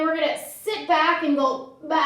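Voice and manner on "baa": long, wobbling baa; stuttering sheep's baa; sheep bleating. Pretend. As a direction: bleat until the breath runs out. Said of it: "be a sheep bleating".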